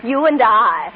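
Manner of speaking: laughing teasingly. Acted. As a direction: tease him while laughing.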